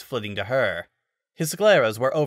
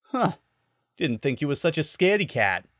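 teasing; 4 semitones higher than usual. Acted. Falco teasing.

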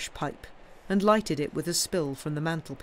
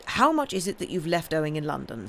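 pointed question. Acted. Uncle demands the sum owed.

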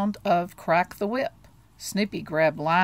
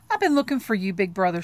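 said sweetly; 3 dB louder, faster than usual. Acted. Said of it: "she said sweetly".

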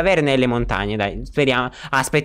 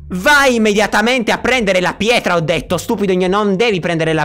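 mock angry scolding; 4 semitones higher than usual. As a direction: play the exasperated boss ordering someone about. Scolds Nick for not fetching stone. (finta sfuriata ad alta voce)

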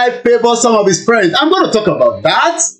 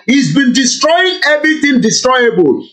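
usual speaking voice

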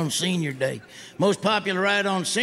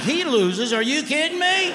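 outraged disbelief; 9 semitones higher than usual. Retold or imitated. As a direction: squeal in disbelief. Outraged at the result.

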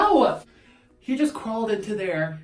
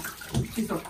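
quiet pleading; 5 dB quieter than usual. Real, not acted. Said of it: "begging cat quietly".

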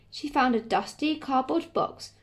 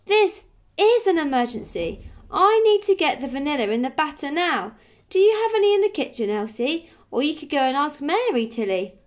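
high, loud, urgent pleading; panicked insistence; 5 semitones higher, 5 dB louder than usual. A narrator's reading. Frantic baker begs Grandma and Tilly for vanilla, panicked and urgent. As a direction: plead urgently, pitch jumping up.

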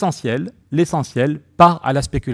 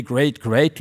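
a light mock of Trump gloating, slightly louder; exultant Trump; 3 dB louder than usual. Mocking Trump gloating over stock records, exultant. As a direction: ham up the boastful "great". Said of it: "Trump exultait".

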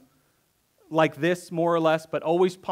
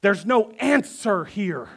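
slightly louder, lightly exasperated psalmist; voicing the psalmist; 4 semitones higher, 4 dB louder than usual. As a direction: speak as the worn-out sufferer. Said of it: "But what he's saying is".

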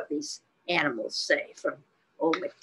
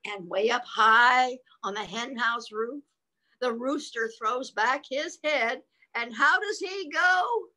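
building storyteller delivery; animated read-aloud; picture-book reading; 5 semitones higher, 4 dB louder, slower than usual. Acted. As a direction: read it aloud, lifting to a high final question. Reads picture book to child.

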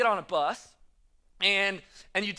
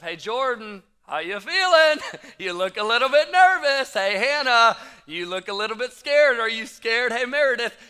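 1 teasing; 3 semitones higher, 6 dB louder than usual. Retold or imitated. Teasing first-timers on the bus.

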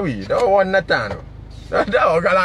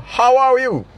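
a higher, teasing put-on "how are you"; mock Melaka greeting; 5 semitones higher, slower than usual. Streamer teasing viewers from Melaka, mock greeting. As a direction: tease it the way a Melaka local might say it. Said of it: "marah orang Melaka".

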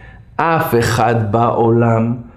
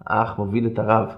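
ordinary delivery

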